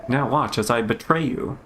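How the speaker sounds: lightly voiced formal master, measured; a hint of grave, composed authority. Master accepting figs from a pupil, lightly formal.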